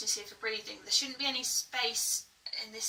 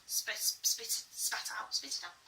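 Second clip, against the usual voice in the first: spitting; 6 dB quieter, slower than usual. Shown as a demonstration. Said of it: "really get the spit".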